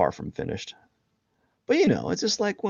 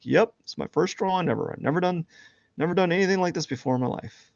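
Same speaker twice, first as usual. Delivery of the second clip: smug fake beginner; 10 semitones higher, 4 dB louder than usual.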